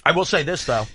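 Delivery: talking through a mouthful of food; words round a bite, mouth full. Real, not acted. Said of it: "Your mouth, your mouth's full".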